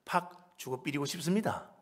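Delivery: quoted in Gyeongsang dialect; imitated Gyeongsang speaker, understated. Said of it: "경상도 사투리로".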